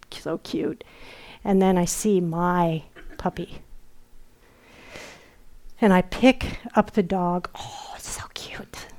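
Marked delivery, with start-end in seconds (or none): 0.1-0.8 soft unvoiced coo over the puppies; whispered so cute. Teacher coos over puppies in a dream, whispered. 7.6-8.9 hushed, breathy coo, much softer; whispered coo. Retold or imitated. Teacher recalls holding dream puppy, hushed whispered coo.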